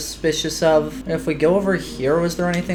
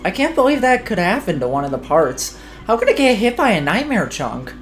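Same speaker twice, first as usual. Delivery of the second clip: higher voiced game characters; character voices; 4 semitones higher than usual. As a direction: read the dialogue in character.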